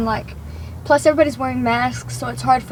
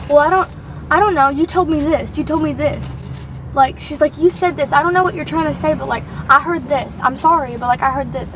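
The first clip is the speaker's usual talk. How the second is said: insistent retold excuse, mildly raised voice; defensive. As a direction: imitate a flustered coworker arguing back. Flustered coworker argues back in retold quarrel.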